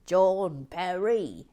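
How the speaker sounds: slow, breathy name call; breathy stretched announcement; slow whispered name. Acted. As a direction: drag the name out in a loud whisper. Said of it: "slow breathy name reading".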